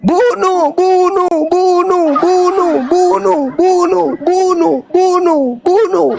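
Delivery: high, punchy mob chant; crowd shouting. Acted. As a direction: chant it over and over like a baying crowd. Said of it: "Orang Kristen teriakannya apa?". (teriakan massa berulang, nada tinggi)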